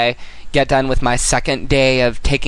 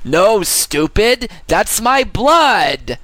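sketch character; 4 semitones higher, slower than usual. Acted. Parody show sketch voice.

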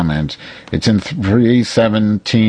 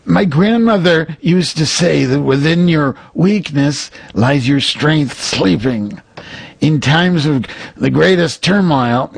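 higher put-on psychic medium voice, wise and sage; Sylvia Browne voice; 7 semitones higher than usual. Reading Sylvia's wisdom to Cheryl in a higher mock-psychic voice. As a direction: intone it like a mock-solemn old psychic. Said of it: "I'll read Sylvia".

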